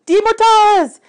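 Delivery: put-on high, loud young girl's alarm; Annabeth's voice. A narrator's reading. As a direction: cry it out as a startled girl. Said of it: "Annabeth said".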